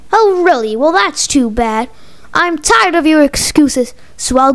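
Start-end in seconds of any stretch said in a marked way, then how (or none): none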